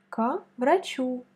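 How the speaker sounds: врачу with the accent on the final у, slow; stress on врачу. Shown as a demonstration. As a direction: lean on the last syllable of врачу. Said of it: "On met l'accent sur ou". (accent sur la dernière syllabe de врачу)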